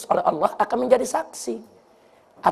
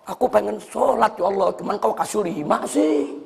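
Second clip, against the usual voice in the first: mock complaint; 5 semitones lower than usual. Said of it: "manusia protes".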